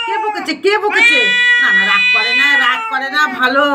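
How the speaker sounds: high, loud soothing of an upset pet; cajoling coo. Real, not acted. Owner soothing an angry cat, cajoling. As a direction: coax insistently in a high pet-talk voice.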